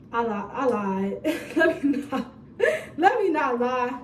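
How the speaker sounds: giggling through the words, slowed down; laughing. Real, not acted. Storyteller laughing at her own fib. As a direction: laugh while owning up to the lie.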